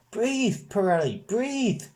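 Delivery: high, loud yell from the crowd. Acted. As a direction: shout a warning to him. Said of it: "somebody yells out".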